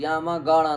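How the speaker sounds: "गाणा" said through the nose, not a hard ga; nasalised "गाणा" with no plain ga sound; nasal pronunciation. Shown as a demonstration. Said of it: "उच्चारण नासिका से होना चाहिए".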